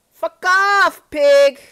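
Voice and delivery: high, very loud outburst; furious shout. Acted. Character telling a threatening opponent off, furious shouting. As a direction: yell the insult full out. Acted quarrel, yelling back.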